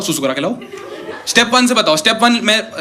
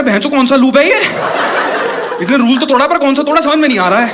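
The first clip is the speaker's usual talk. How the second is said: confused cop; 5 semitones higher than usual. Retold or imitated. Confused cops complaining.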